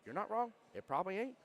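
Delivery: imitating his keyed-up answer; excited retelling. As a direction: toss it back to the wife, all fired up. Retold reply to wife.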